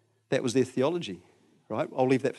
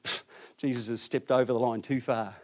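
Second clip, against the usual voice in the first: fed-up muttering; 3 semitones lower, 5 dB quieter than usual. Retold or imitated. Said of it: "would have gone".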